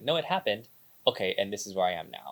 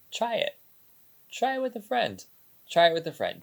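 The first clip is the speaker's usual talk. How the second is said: higher, eager push to the viewers; urging challenge; 8 semitones higher than usual. Real, not acted. Host urging viewers to try it, excited. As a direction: press the challenge on them. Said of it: "I challenge you".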